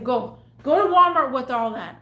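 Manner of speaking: loud retold send-off; heated order to leave; angry dismissal. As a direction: shoo them out forcefully. Ordering customer out of store.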